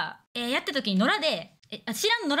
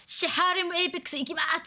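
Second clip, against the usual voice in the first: stream hype call; 6 semitones higher than usual. Retold or imitated. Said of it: "とか言ってやってたの".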